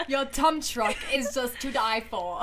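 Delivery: put-on British accent. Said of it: "those types of accents".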